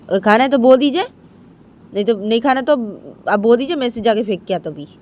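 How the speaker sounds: brushing off mother in irritation; annoyed son. Acted. Son refusing angrily. (झुंझलाए बेटे का ज़ोरदार इनकार)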